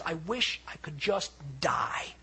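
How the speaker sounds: slow, half-whispered despair; acted despairing lament; depressed. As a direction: sigh it out slowly, worn down. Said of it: "he's so depressed".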